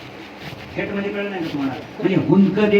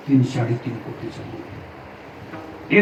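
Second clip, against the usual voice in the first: softer, slow whispered figure; 6 semitones lower, 6 dB quieter, slower than usual. Shown as a demonstration. Preacher marvels at the bungalow cost in a slow whisper. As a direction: let the price hang in a whisper.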